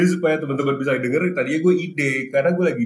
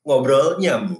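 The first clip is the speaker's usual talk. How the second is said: slow, higher late-night radio voice; radio host voice; 4 semitones higher, slower than usual. Shown as a demonstration. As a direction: announce the show name slowly. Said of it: "pakai suara, penyiar radio tengah malam".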